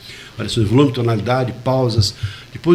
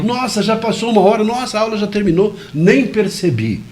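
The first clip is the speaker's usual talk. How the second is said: imitating a student; 7 semitones higher than usual. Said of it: "fica gostosa".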